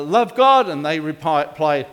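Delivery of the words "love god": retold call. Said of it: "he yells it out".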